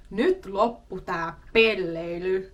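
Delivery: a mock scolding that breaks into laughter; laughing scold. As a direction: scold the class but giggle through it. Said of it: "I can't even say it with a straight face".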